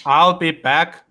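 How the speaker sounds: mock Austrian action-hero voice; lightly voiced movie tough guy on request; Arnie. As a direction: do a modest impression of the film catchphrase. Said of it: "in your most, uh, Arnie, Arnie voice".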